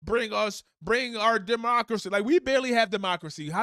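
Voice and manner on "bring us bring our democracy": mocking stupid Americans. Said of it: "stupid Americans like".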